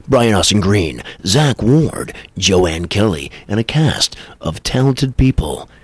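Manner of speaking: trailer announcer voice, slow at first; movie trailer voice. Shown as a demonstration. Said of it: "but I'm doing my best".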